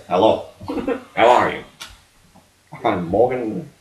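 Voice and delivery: lightly voiced celebrity impression; Morgan Freeman. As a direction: play a daughter with a famous man's voice. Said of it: "daughter to sound like Morgan Freeman".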